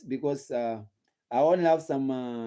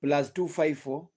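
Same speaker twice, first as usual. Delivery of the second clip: slow number read. Shown as a demonstration. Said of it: "my number is always public".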